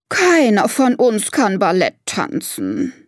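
slow, mildly dejected elephant lady; sighing. Acted. Elephant lady giving up on ballet, mild slow sigh. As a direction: sigh it out slowly, lightly voiced. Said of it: "seufzt Elefantendame Martha".

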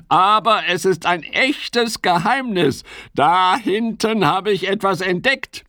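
high, bright-eyed frog voice; excited secret. Acted. Fips shows his friends the first snowdrop, excited. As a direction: reveal a secret with growing wonder.

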